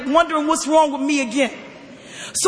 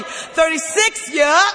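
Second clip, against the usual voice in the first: deli counter call; much slower than usual. Pretend. Calling numbers like a deli.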